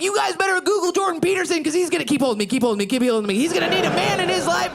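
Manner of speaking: high taunting yell; mock yell. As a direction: shout the taunt after them. Yelling at departing family.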